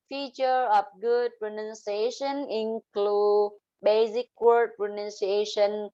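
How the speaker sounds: dull, even tune; flat monotone. Shown as a demonstration. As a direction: read it level and flat. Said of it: "Giọng mình phải như thế này nè".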